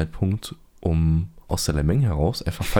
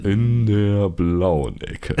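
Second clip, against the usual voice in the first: slow, drawn-out ring announcer call; lucha libre announcer; 4 dB louder, much slower than usual. Pretend. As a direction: stretch it out like a boxing ring announcer. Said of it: "kann ich Ansager werden für Gerichtsverhandlung?".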